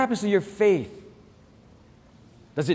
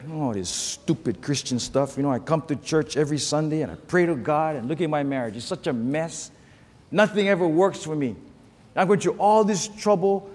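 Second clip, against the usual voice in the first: mope through it like a sour churchgoer; whining Christian; 2 semitones lower than usual. Retold or imitated. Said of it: "walk around kicking the dirt".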